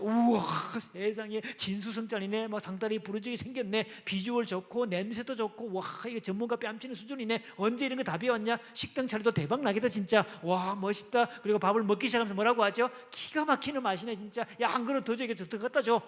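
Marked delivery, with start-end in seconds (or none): 0.0-11.3 acted guest fussing over the food; gushing admiration. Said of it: "그렇게 호들갑 떨어지고 감탄해". 13.1-16.0 acted delighted diner, pitched up; mildly hammed-up gushing; fussy raving. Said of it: "그렇게 호들갑 떨어지고 감탄해".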